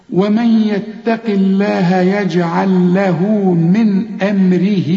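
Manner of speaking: drawn out slowly; slow recitation. Shown as a demonstration. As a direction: chant the verse slowly.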